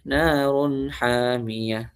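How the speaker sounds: adreka recited very slowly, the a leaning to e; slow Quran recitation. Shown as a demonstration. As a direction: chant it slowly like tilawah. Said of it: "Seperti itu".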